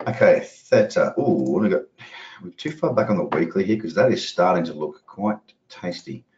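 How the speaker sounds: a passing hint of a bad French accent; slight French accent. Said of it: "a little terrible French accent".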